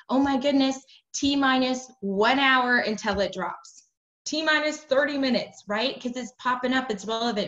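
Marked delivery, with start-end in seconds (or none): 0.1-5.6 hyped countdown. Shown as a demonstration. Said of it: "I'll be like".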